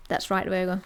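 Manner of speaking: pat someone on the back with mild self-satisfaction; understated smug praise. Acted. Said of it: "sitting here all smug going".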